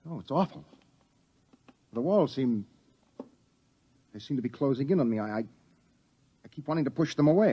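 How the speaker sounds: hushed, rushing words of panic; breathless, walls closing in; panicky fear. Acted. Young man panicking in the pitch-dark room, hushed and rushing.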